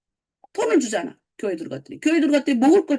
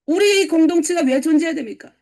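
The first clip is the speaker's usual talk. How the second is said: normal talking voice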